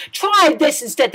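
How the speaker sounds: high, loud yell; the prince yells back at sister number two. A narrator's reading. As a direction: yell it as he swings the sword. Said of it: "the prince yelled back".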